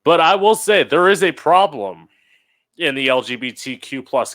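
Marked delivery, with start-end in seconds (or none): 0.0-2.1 louder and higher emphasis; emphatic. Real, not acted. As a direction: hit it hard to turn the point. Emphatic turn to main point.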